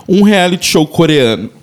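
hiccup breaking into the words. Real, not acted. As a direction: talk through a hiccup. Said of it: "Ai, soluço".

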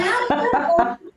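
sem graça, rindo, agudo; laughing. Retold or imitated. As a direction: ri ao receber só um tem. Reação rindo ao "tem. (risada sem graça)

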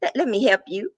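normal talking voice

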